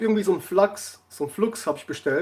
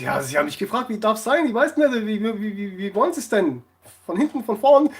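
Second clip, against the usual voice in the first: builds from plain to higher and louder; mock-innocent insisting; 4 semitones higher, 5 dB louder than usual. Teller retells his cheeky answer to the baker, rising mock insistence. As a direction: play dumb, getting more worked up. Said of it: "Ich so".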